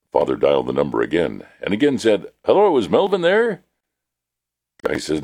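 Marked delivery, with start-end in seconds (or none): 2.4-3.6 innocent caller. Acted. Father calls the same number again.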